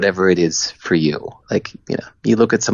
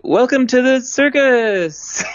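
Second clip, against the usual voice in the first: timid announcer; 14 semitones higher than usual. Retold or imitated. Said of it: "I was still acting like me".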